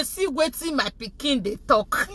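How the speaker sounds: put-on softly passing on the child's words; quiet retold aside. Mother interpreting her child's English to the caller, said quietly.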